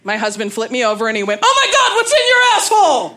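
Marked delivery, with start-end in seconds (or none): 1.4-3.2 high, loud panicked yell, acted; horrified shriek. Husband's horrified reaction acted out.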